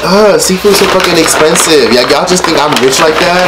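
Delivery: high-pitched mock exasperation; retold indignant protest. Vlogger answering followers about costly seafood, retold indignant protest.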